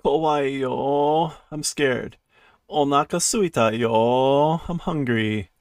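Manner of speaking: understated acted whine; crying. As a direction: whimper it with a touch of mock tears. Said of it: "So he's still crying".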